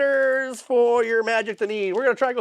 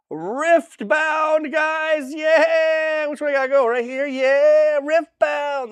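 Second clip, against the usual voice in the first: hype shout; 5 semitones higher, slower than usual. Acted. Hyping the tournament event.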